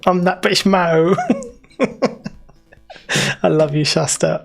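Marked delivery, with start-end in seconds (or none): 0.1-1.1 imitating a hammy British impression; slightly raised, put-on British voice; mock British accent. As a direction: parody someone's British impression. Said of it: "Rachel's impression of your impression of me".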